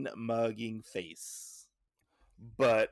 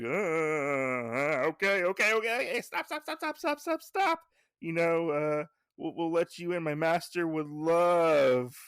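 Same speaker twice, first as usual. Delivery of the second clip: imitating a panicky climb to a very high squeak, then easing down; hammed-up rush of high-pitched begging, settling higher than usual; panicked pleading; 6 semitones higher, 4 dB louder than usual. Bunjiro begging the swordsman to stop, hammed-up panic. Cornered character pleads and relents.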